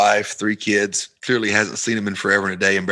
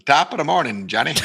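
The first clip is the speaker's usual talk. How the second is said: half-hearted attempt at Irish; bad Irish accent; 2 semitones higher than usual. Shown as a demonstration. Southerner goaded into trying, botched Irish accent. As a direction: try an Irish accent and fail at it. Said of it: "I can't even do the Irish accent".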